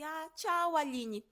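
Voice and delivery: high, loud fake-sweet goodbye; pointed goodbye. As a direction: get her back with a sweet farewell. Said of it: "virei pra ela e falei assim".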